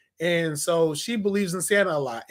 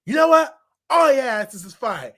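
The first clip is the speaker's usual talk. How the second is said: mock yell; 5 semitones higher, 5 dB louder than usual. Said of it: "he's like".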